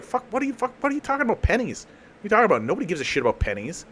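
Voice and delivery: high, exasperated mock rant about pennies; exasperated everyman. Fed-up shopper ranting to nobody, high exasperated whine. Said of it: "Everybody was just like".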